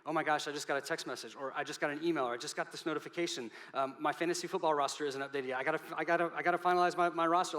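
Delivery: a phone user fretting over notifications, frantic; mock panic. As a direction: play someone frazzled by their phone. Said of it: "it's real easy to think".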